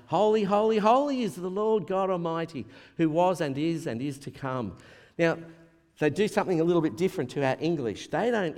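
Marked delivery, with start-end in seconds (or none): 0.1-4.7 loud, high proclamation of worship; raised voice, ringing out in praise; proclaiming praise. Retold or imitated. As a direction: cry it out like heavenly creatures. Reading the heavenly creatures' ceaseless cry.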